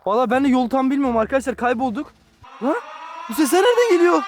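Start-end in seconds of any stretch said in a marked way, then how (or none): 2.6-4.2 alarmed shout. Acted. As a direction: shout out in sudden fear. Siren sounds return.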